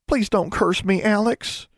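put-on high, small pleading girl's voice; a scared kid begging not to be cursed; pleading young girl. A narrator's reading. Innocence begs.

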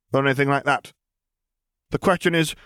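a lifted, amused female voice; Lily's voice. A narrator's reading. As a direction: correct the charge with dry poise.

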